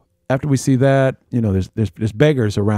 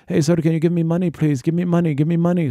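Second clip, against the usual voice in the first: imitated beggar; 7 semitones higher than usual. Beggars pestering at pyramid.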